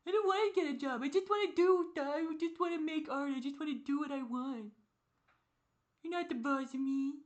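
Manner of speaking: put-on high, far-up bratty child whine; mock yourself as a tantruming kid; whiny child. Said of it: "And I'm a child".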